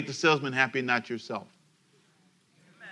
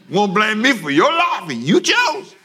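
higher and louder, a lightly voiced street-talking God; 6 semitones higher, 5 dB louder than usual. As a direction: let God talk tough street slang. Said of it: "if God was talking to you in street talk".

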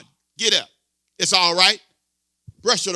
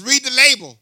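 loud, higher command Read the label; preached command; 5 semitones higher, 7 dB louder than usual. Real, not acted. Preacher voicing stamina's rule to the church, loud. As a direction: shout it like a rule. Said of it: "Stamina says".

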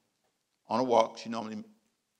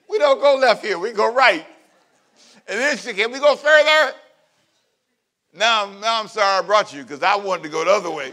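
exasperated retelling; 9 semitones higher, 12 dB louder than usual. Retold or imitated. Retelling irritation on walk, high-pitched.

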